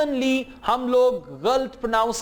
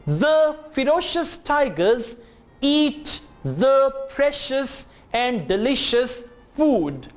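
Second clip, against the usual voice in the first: slow, chunked, over-articulated reading; read-along model; much slower than usual. Shown as a demonstration. Teacher models the tiger sentence for learners, slow and careful. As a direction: read in small groups with pauses. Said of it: "मेरे साथ पढ़ें".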